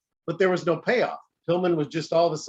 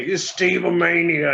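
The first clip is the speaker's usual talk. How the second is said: announcer impression; 3 semitones higher, 5 dB louder, slower than usual.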